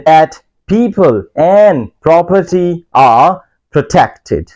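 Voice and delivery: slow, careful definition reading. Shown as a demonstration. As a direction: read it out slowly for learners. (धीमी पढ़ाई वाली आवाज़)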